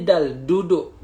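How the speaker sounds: "dal, duduk" with Malay d, tongue on upper gum. Shown as a demonstration. Teacher shows Malay habit, "dal, duduk" with tongue on gum. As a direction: tap "dal, duduk" behind the upper teeth. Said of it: "Kita sebut orang Melayu ni".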